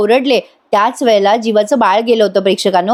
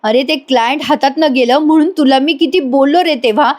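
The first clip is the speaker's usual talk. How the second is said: higher, choked fatherly self-reproach; remorseful father voiced higher, near tears; guilty father's lament; 4 semitones higher than usual. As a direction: scold yourself as a father breaking down. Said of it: "त्याला जोरात चापट मारतात आणि म्हणतात".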